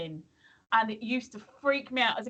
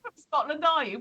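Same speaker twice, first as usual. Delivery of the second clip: mock Scottish quote; 5 semitones higher than usual. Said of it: "You're not from".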